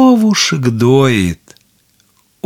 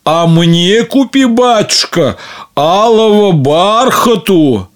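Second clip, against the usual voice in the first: eager daughter; 5 semitones higher than usual. Acted. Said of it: "Другая дочь просит".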